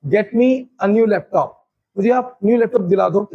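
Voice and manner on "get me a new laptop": each word spelled out slowly; teacher's slow model; slow model sentence. Shown as a demonstration. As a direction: say it slowly for learners to copy. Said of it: "मैंने क्या बोला?".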